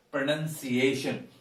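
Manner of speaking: slow 'Pronunciation' with 'nun' in the middle; correct pronunciation. Shown as a demonstration. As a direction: draw out 'Pronunciation', saying 'nun', not 'noun'. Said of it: "It is N U N".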